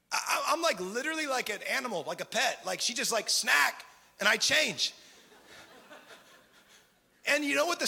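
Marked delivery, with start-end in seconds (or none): 3.3-3.9 louder, like calling a pet for a treat; snack call. Retold or imitated. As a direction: dangle the word like a treat. Wife tempting him like a pet.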